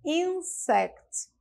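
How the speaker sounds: Insect said up high and drawn out. Shown as a demonstration. (Insect dito mais agudo e claro)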